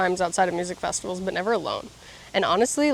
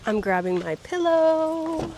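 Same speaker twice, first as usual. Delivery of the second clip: delighted; 7 semitones higher, slower than usual. Real, not acted. Delighted showing tent.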